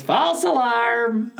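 put-on nasal, high old man voice; grumpy old man. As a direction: bark it like a cranky old man. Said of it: "in a nasal, pitched up old man voice like that".

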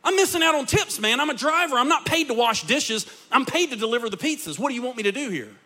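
high, loud mock complaining; whiny griping driver. Pastor imitating drivers griping to the manager, mock whine. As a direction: whine like a put-out pizza driver. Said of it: "They would say".

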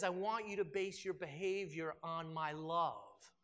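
slow, gentle assurance; lightly voiced, tender Jesus. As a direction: speak it as a loving promise. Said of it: "He says".

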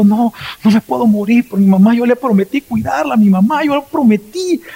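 a hint of tearful desperation; mildly tearful vow to his mother; retold crying plea. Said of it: "iba llorando y diciendo".

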